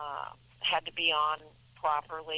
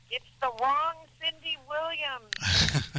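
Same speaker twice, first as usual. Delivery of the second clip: exasperated; 10 semitones higher, 5 dB louder, much slower than usual. Real, not acted. Denies writing the criticized email.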